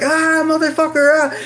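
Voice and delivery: high, loud screamed curse; screaming in pain. Retold or imitated. Patient as nurse jabs blindly, screaming in pain. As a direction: scream and swear through the jab. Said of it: "I'm, like, screaming".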